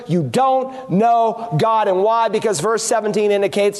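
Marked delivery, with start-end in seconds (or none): 0.1-1.9 slow, word-by-word statement; plain, direct. Retold or imitated. Preacher restating Jesus' words without sarcasm, plain and direct. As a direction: spell it out slowly, without irony. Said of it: "but in plain English".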